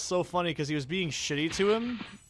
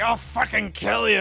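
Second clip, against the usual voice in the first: louder, higher mock threat; retold threat; 6 semitones higher, 7 dB louder than usual. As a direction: bark out the homeless man's threat. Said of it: "He's like".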